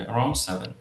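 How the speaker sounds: SEVEN falls at the end; downward statement. Shown as a demonstration. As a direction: let the pitch step down onto SEVEN. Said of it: "just downward যাবে".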